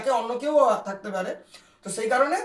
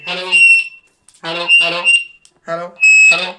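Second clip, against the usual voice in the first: calling out; 4 semitones lower, 11 dB louder, faster than usual. Real, not acted. Testing walkie talkie, calling out.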